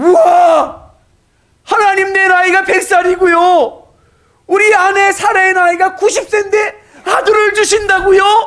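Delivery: joyful astonished cry, very loud and high. Reading Abraham's reply in a Bible passage as an amazed exclamation. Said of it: "비웃는 말이 아니라 믿음의 감탄사가 될 수 있습니다. 어떻게 읽으냐고요?".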